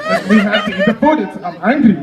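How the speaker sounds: "angry" for hungry, with no H; French dropped H. Acted. French person wanting to eat, French dropped H. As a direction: insist on food, H dropped in "angry". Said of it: "you guys don't say the H".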